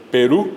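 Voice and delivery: Perú with weight on the final Ú; stress on final U. Shown as a demonstration. Teacher showing where Perú is accented, stressed final U. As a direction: say Perú stressed on its last syllable. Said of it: "tiene el acento en la U".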